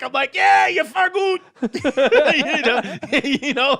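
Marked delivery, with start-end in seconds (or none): 0.3-1.4 high, slow laughing yell; laughing mock shout at the crowd. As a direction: shout it while cracking up. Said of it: "just yelling".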